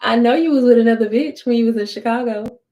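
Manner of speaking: confronting, firm and loud; calling him out. Retold or imitated. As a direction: throw it in his face. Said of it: "And I said it just like that".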